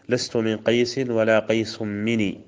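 slow verse, مني with a single nun; slow line, مني not doubled; without doubling. Shown as a demonstration. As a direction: recite slowly, مني light. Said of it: "بدون تشديد".

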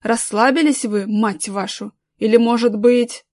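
loud villain menace; menacing threat. Acted. Thug threatens gang.

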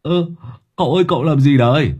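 startled high-pitched objection; squawking cry. A narrator's reading. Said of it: "nó kêu lên choe choé".

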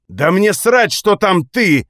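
high, loud outburst; angry snap. A narrator's reading. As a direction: bark it out, patience gone. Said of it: "рявкнул я, не выдержав".

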